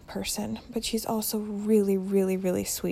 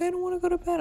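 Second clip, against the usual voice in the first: imitating crying child; 9 semitones higher, much faster than usual. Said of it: "she's crying".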